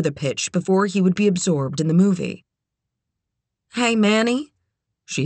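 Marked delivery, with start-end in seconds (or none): 3.7-4.5 put-on higher, tentative young woman. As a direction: call to him, a bit nervous. Kit voiced higher.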